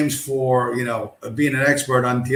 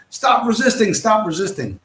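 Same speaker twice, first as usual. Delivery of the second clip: tag; 8 semitones higher than usual. Acted. Acts out cop beating a suspect.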